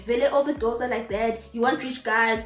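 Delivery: light imitation of a Nigerian accent. Mimicking the Uber driver lecturing her, light Nigerian accent. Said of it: "in his Nigerian accent".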